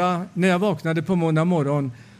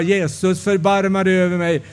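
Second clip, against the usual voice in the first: crying out; 3 semitones higher than usual. Retold or imitated. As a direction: call out to Jesus, pleading and building. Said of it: "skrek jag".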